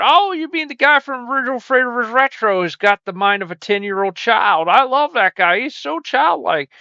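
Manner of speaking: mock fan. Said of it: "you're going".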